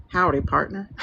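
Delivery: put-on playful cowboy accent greeting; lightly put-on cowboy accent. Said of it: "Oop, wrong accent".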